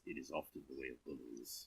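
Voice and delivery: low, hushed aside into the ear; whispering. A narrator's reading. Agog whispering a warning into the cleric's ear, hushed. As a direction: lean in and murmur it close. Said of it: "Agog whispers in your ear".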